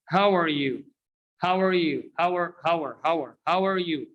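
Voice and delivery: "How are" repeated as one word, "hower"; linked reduced are. Shown as a demonstration. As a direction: drill "How are you" with "are" cut to R. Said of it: "in the end of the previous word".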